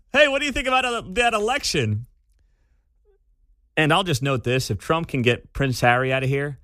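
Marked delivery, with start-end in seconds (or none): 0.1-2.1 higher, bright British reporter impression; chirpy street reporter with a light British lilt; mock British reporter. Host mimics the TMZ reporter accosting Oprah, lightly British. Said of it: "you have a little British accent".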